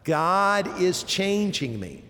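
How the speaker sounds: slow, deliberate final repeat; leading recitation. Shown as a demonstration. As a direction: lead everyone through it slowly. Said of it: "Say it one more time".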